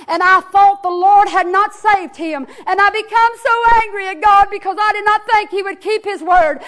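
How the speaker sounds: loud, urgent preached quote; fervent testimony in her words; impassioned confession. Retold or imitated. Acted confession of anger at God.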